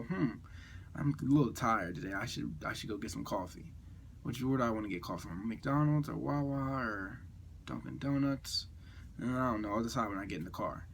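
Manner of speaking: inner monologue. Acted. Host voicing morning thoughts about coffee, quietly musing to self. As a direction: think it over idly, drawing out the options. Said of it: "I'll go".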